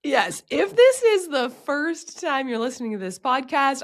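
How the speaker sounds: hoarse sick voice; rough voice from a cold. Real, not acted. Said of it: "my voice doesn't normally sound like this".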